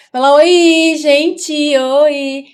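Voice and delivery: "Fala oi" sung out high and loud; mother loudly prompting her son to greet viewers, bright and high; loud cheerful prompt. Real, not acted. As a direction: cheer him on to say hi.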